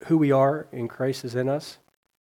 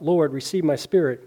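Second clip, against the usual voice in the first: called out; 3 semitones higher, 6 dB louder than usual. Acted. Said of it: "He called out".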